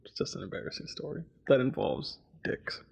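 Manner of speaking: hushed embarrassed whisper. Real, not acted. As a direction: drop to a sheepish whisper.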